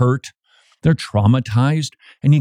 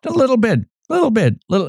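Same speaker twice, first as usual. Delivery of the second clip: light coaxing; 10 semitones higher, much faster than usual. Shown as a demonstration. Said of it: "drop the nugget".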